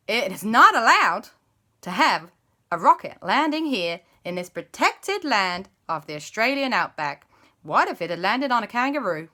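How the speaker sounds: loud Aussie scolding; Australian guide. Acted. Guide scolding about the protected outback, Australian accent. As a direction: tell them off like a bush ranger. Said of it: "their guide said".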